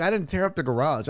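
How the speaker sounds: light imitation of his wife; wife denying it again, lightly voiced; mock wife denial. Acted quarrel with Nora.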